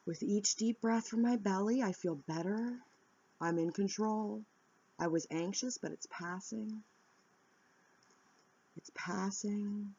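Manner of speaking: softening, slowing calm affirmation; calm self-talk. Shown as a demonstration. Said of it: "Tell yourself".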